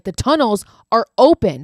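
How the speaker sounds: a touch of panic, voice jumping up in volume; retold panic. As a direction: imitate someone announcing disaster. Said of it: "Hadley starts to panic".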